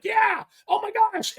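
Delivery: high, drawn-out whoop of celebration; excited cheering. Retold or imitated. Two anglers on fire with bites, retold excited cheer. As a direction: holler it high and stretch it out. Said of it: "We're just like".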